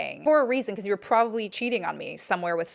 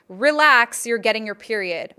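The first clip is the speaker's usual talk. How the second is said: RELAX said louder; mock loud sign read; 5 dB louder than usual. Reading his taped sign aloud, loud mocking jab. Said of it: "a sign taped on his wall that said".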